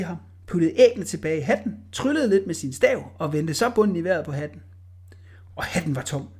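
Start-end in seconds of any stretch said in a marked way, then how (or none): 5.6-6.3 hushed, secretive reveal; whispered reveal. A narrator's reading. Narrator revealing the empty hat, whispered. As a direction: whisper the surprise. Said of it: "narrator whispers reveal".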